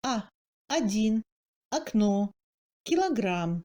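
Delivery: один, окно said "adin, akno"; O as short A. Shown as a demonstration. Teacher shows first-degree reduction, O as A. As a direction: kilogramme in Russian, pretonic O turned to short A. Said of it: "ce A devient plus court".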